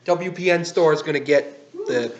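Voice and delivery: upbeat product news read; brisk presenter talking to camera; YouTube host delivery. Acted. Host's product news segment.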